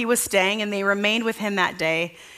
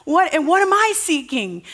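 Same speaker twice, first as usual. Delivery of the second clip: musing aloud; 9 semitones higher than usual. Retold or imitated. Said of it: "I'm like".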